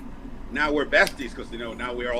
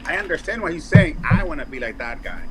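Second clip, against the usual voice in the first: put-on childlike awe; 4 semitones higher, 4 dB louder than usual. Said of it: "I'm like".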